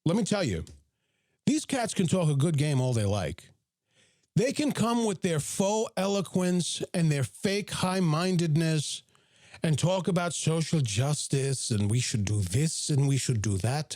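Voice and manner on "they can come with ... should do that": lightly put-on British accent of a faux intellectual; fake British accent. Vlogger mimicking faux intellectuals talking social justice, fake British accent. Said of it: "for my fake British accent".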